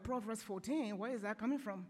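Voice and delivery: puzzled reaction. Retold or imitated. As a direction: wonder aloud where it came from. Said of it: "I woke up, I'm like".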